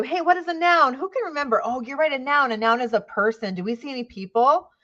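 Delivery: lightly acted kindergarten teacher questioning the class; upbeat teacher voice. Shown as a demonstration. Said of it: "you might have to review".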